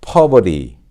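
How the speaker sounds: American "poverty" as "pah-ver-ee", T flapped; American model word "poverty"; American pronunciation. Shown as a demonstration. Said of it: "미국식으로 발음하면".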